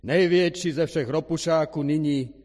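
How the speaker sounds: loud, high proclamation; projected ringmaster billing; announcer voice. A narrator's reading. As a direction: trumpet the star of the show. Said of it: "Potom hlas oznámil".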